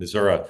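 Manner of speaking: "Missouri" said as "Mizzou-ruh"; Missouri ending in "uh". Shown as a demonstration. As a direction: finish "Missouri" with "uh" instead of "ee". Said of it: "You like to say Missouri or Missouri".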